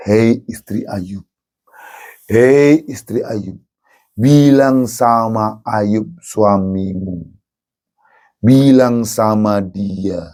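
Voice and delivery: low, slow, coaxing tempter; sly devil whisper. Acted. Satan tempts Job's wife, low and coaxing. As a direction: lure her slowly in a low voice.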